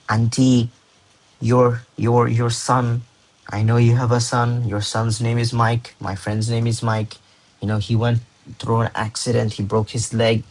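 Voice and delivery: halting, pause-filled mock phone message; roundabout rambling. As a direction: break it up, stalling before the bad news. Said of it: "bro, just say what you have to say".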